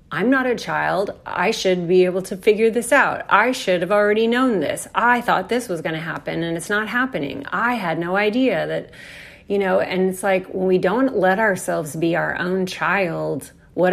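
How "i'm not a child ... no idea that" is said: frustrated self-talk. Retold or imitated. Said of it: "this kind of like".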